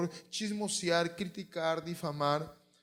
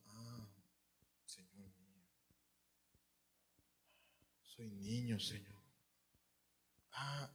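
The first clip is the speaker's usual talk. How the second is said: timid Jeremiah; 6 semitones lower, 12 dB quieter, slower than usual. Acted. Jeremiah answering God, humbled.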